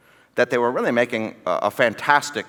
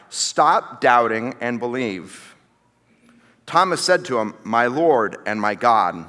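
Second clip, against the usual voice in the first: slow, measured Bible reading; unhurried reading with falling line endings; scripture reading; 4 semitones lower than usual. A narrator's reading. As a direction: read the passage deliberately, letting phrases land. Reads scripture aloud.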